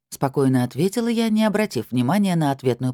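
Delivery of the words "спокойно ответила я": ordinary delivery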